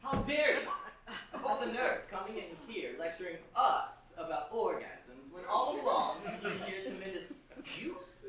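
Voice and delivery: loud, indignant outburst; how dare you, thundering outrage; scandalized. Acted. Father outraged at impostor.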